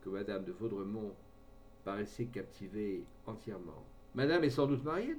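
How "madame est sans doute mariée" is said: a touch of nervous hesitation in the question; unsteady voice. A narrator's reading. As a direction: ask it like a man unsure of himself, mildly shaken. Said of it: "d'une voix mal assurée". (voix mal assurée, légèrement hésitante)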